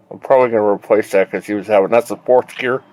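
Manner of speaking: talking around a flashlight; mouth full. Real, not acted. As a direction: speak with something held in your mouth. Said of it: "I got the flashlight in my mouth".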